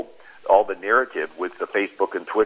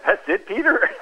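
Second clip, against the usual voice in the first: amused laugh; 12 semitones higher than usual. Real, not acted. Laughing at Peter's denial.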